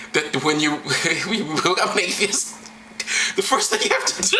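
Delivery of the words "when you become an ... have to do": trying to talk through the giggles; cracking up mid-sentence; helpless laughter. Real, not acted. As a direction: voice climbing as laughter takes over. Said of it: "I don't know why I'm laughing".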